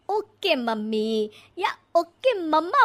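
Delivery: put-on ओके मम्मा said like a modern city kid; trendy 'OK mamma'. Shown as a demonstration. Mother-in-law teaching the bride to say ओके मम्मा. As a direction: show her the cool way to say ओके मम्मा. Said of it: "बोल दिया करना".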